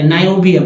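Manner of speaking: नाइओबियम in one go, "nai-o-bium"; correct reading. Shown as a demonstration. Teacher confirming the reading for learners, correct reading. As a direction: begin नाइओबियम with an EYE vowel. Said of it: "ऐसे पढ़ेंगे".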